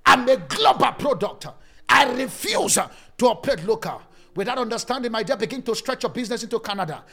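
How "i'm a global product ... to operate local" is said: louder. Shown as a demonstration. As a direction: say it louder, half-shouted. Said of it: "Say it louder".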